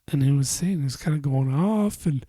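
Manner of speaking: words stretched by a yawn; talking through a yawn. Real, not acted. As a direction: yawn while you talk. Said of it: "sorry, yawn break".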